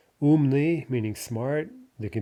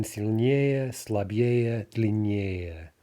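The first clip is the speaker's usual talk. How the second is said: "сильнее, слабее, длиннее" each stressed on the -ее ending; stressed comparative ending; much slower than usual. Shown as a demonstration. Teacher showing which ending gets stressed, "сильнее, слабее, длиннее" with end stress. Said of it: "we expect to get stressed".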